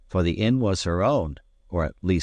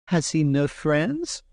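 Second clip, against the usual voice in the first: tearful maid; 9 semitones higher, slower than usual. Acted. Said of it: "said she in a tearful voice".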